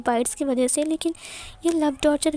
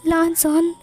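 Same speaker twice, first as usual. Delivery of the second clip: louder, higher cry of his name; screaming his name; 3 semitones higher, 5 dB louder, slower than usual. Acted. Wing cries his husband's name during the painful first night, louder and higher. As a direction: call out his name in pain. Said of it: "चिल्लाते हुए कहा".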